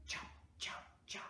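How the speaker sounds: soft, voiceless chop noises; chopping sounds. Acted. Storyteller miming chopping with children, whispered chop sounds. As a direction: puff out each chop like an axe stroke.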